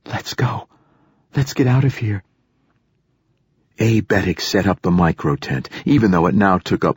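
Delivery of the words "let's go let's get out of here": frightened, teeth chattering. A narrator's reading. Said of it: "her teeth chattering despite the heat".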